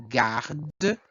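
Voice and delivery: garde drawn out, closing on a sounded D; strong last syllable. Shown as a demonstration. Teacher points out strongest syllable, stressed garde with audible D. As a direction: lean on the A of garde, release the D. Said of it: "a sílaba mais forte".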